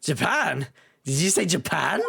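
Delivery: incredulous Scottish governor; Scottish accent. Acted. Governor checking where the student is from, Scottish accent. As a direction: query it in a Scots brogue, rising at the end. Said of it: "Irish slash Scottish".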